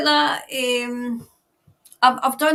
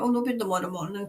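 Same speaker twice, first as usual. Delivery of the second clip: normal talking voice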